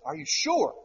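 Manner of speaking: high-pitched disbelief, imitated; acted doubt, swooping high; incredulous question. Retold doubting wife.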